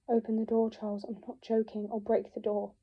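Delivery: loud, forceful call through a door; shouting through the kitchen door at her brother; urgent demand. Acted. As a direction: insist he open up now.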